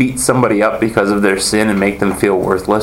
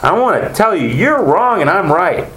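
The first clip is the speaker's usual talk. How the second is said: smug gloating; 9 semitones higher than usual. Retold or imitated. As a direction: savor being right, hammed up. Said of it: "really lay into them because".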